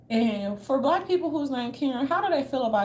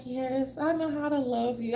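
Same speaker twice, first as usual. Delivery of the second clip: mock tender; 4 semitones higher than usual. Mocking a sappy poet, a hint of tender. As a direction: croon it like a cheesy love poem. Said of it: "be like".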